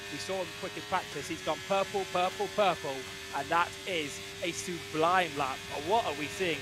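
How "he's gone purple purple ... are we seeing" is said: excited call. Real, not acted. Purple sectors, commentator gets excited.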